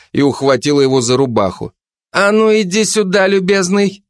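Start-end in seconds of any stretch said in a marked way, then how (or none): 2.1-4.0 higher, pushy detective woman; Zhanna's voice. Acted. Жанна давит на Кулебяку, напористо и выше. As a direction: lean on him, mock-polite and suspicious.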